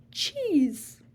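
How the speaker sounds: breathy dramatic whisper of the name; hushed, mysterious name drop. Acted. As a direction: whisper it like a secret reveal.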